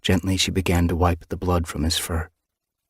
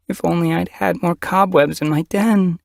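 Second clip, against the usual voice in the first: a higher, thick-throated grieving she-cat; thick mew; 12 semitones higher, 3 dB louder than usual. A narrator's reading. Medicine cat blaming herself for too few cobwebs, thick mew. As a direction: voice catching as she mews thickly. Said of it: "she mewed thickly".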